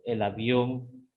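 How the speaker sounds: slow "avión" with ón carrying the stress; stress demonstration. Shown as a demonstration. Teacher repeating an accent example, slowly stressing ón in "avión". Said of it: "este es el acento agudo".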